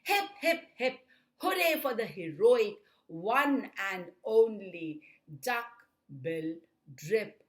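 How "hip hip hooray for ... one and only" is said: high, loud opening hurrah; celebratory storybook chant; happily hooted cheer. A narrator's reading. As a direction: lead a gleeful cheer. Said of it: "hooted happily".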